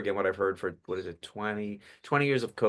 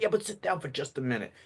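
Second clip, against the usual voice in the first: lightly voiced grandpa, pitched up; grandpa character; 4 semitones higher, 4 dB quieter than usual. Shown as a demonstration. Grandpa pressing the child to stay, lightly acted character voice. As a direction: gently insist as the old grandpa. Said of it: "It's obvious with the change of voice".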